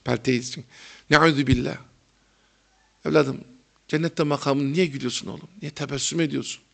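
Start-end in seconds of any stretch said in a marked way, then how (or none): 1.1-6.6 tutting softly then a lightly voiced reproach; disapproving teacher. Old teacher scolding a laughing student, a hint of tutting reproach. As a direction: click the tongue in dismay, then chide gently. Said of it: "Böyle konuşurdu".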